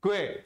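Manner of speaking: crisp single-syllable क्वे, kw plus e; correct pronunciation. Shown as a demonstration. Teacher repeating the correct sound, क्वे as one kw-e syllable. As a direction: say क्वे as kw joined to e. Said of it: "सही कैसे बोला जाता है".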